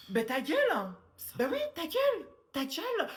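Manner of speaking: high, loud shut up; furious shout. Acted. Mother yelling at her kids to shut up, furious. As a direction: bark it at them.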